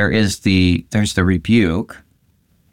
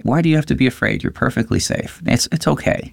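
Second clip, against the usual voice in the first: put-on comforting a child; 3 semitones higher, faster than usual. Shown as a demonstration. Parent soothing a child scared of monsters, gentle. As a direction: hush a scared child at night. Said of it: "like comforting a child in the middle of the night".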